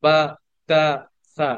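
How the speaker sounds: বা, তা, সা each said short with one beat of vowel; short letters, not stretched. Shown as a demonstration. Teacher contrasting short letters with the long jim. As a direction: tap out বা, তা, সা quickly, no lengthening. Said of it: "আগেরগুলো পড়লাম কিভাবে?".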